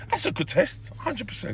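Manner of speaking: flat robotic delivery. Real, not acted. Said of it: "that was a bit robotic".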